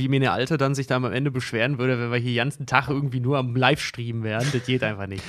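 lightly put-on Berlin dialect, low and soft. Asked for dialect, he tries a Berlin accent. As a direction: mumble it in a casual Berlin twang. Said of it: "Folge mit Dialekt machen".

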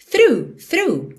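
"through" twice, tongue on the front teeth; th demo. Shown as a demonstration. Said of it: "Só não pode esquecer do th". ("through" duas vezes, com th na ponta da língua)

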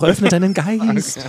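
slow, mystical wizard voice. Pretend. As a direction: intone it like a forest wizard. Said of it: "So kann ich die ganze Folge sprechen".

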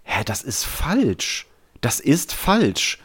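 confused disbelief. Retold or imitated.

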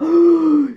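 a sudden high gasp of pressure; sharp gasp. Retold or imitated. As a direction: catch your breath in alarm. Pressure after finishing master's.

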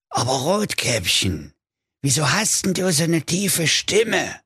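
wolf voice rising high in wonder; a baffled wolf asking; puzzled wolf. Acted. Wolf fragt Rotkäppchen.

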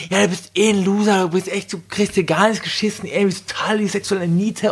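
retold aggressive insults. Spurned lover insulting the speaker after sex, mock aggression. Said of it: "wurde er auch so richtig aggressiv".

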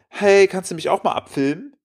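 lightly voiced young woman asking a favour; imitating young woman. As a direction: pitch lifted for her breezy request. Retells young woman asking to be filmed.

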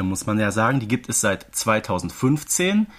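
ordinary delivery

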